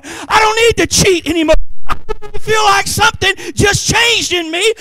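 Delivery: rising joyful testimony. Retold or imitated. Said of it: "freed convert testifying".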